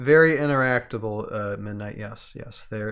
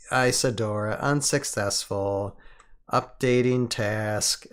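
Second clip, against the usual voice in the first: robot voice. Acted. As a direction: read it like a lazy robot. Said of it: "You gotta do the robot voice".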